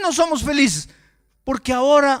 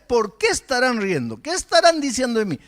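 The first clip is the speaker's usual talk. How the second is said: anxious thought. Retold or imitated. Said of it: "yo comienzo a pensar".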